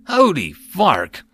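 high, slow-stretched yelp of panic; loud, drawn-out panicked oath; panicked cry. A narrator's reading. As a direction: cry out in alarm. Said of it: "cried out in panic".

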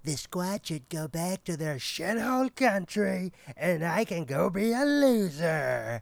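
loud, high hammed-up American voice; exaggerated American accent, slowing and building; attempted American accent. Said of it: "Uy, I try also".

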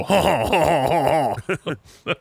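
slow, high, mocking ha-ha; a drawn-out mocking laugh from the French class. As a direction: laugh at him like the whole class. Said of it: "they all go".

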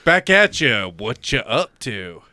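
mimicking his delivery. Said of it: "how did you say it".

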